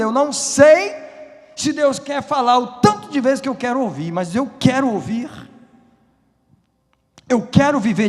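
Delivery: high, loud, impassioned declaration; preaching at full force. Real, not acted. Preacher declaring God's promise to the church, loud and fervent. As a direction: cry it out with rising urgency.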